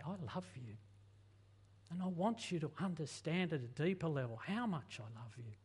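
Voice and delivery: soft, low and tender; tender God voice. Acted. God comforting a broken person, soft and tender. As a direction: reassure a hurting child gently. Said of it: "He's wanting to say".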